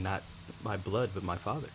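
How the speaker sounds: ordinary talk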